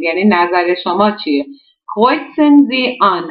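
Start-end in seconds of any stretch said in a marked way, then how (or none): 1.9-3.2 Kreuzen Sie an read very slowly, word by word. Shown as a demonstration. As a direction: spell out the German instruction slowly for learners. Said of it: "An kreuzen فعل ترکیبی هست". (آهسته و شمرده خواندن)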